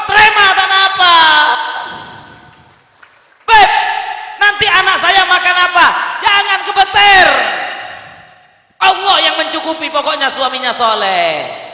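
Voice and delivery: loud, high sermon delivery; full-force preaching. Real, not acted. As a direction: preach it hard to a crowd.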